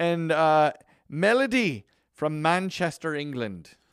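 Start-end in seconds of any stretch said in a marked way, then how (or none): 1.1-3.7 high, sing-song, put-on vaguely Irish accent. Reading out a new Patreon supporter's name and city: put-on accent, kind of Irish. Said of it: "I don't know what accent I did there".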